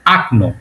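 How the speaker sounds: আকনো with the first vowel as a; আকনো, unstressed o reduced to a; correct reduced vowel. Shown as a demonstration. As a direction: say আকনো, open a at the start. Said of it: "সঠিক উচ্চারণটা কি হবে?".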